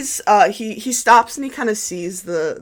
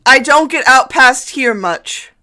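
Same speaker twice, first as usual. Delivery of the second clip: higher, eager priest voice full of fuss; fawning priest; 8 semitones higher, 10 dB louder than usual. Acted. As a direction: fuss over them like a nervous host. Priest answers about horses.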